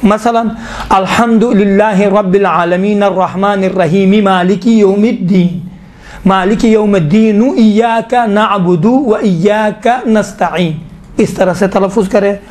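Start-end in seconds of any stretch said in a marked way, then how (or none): 0.9-10.8 verses joined in one flowing recitation; connected recitation. Shown as a demonstration. Teacher showing continuous reading to students, flowing. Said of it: "इत्तिसाल करके पढ़ना".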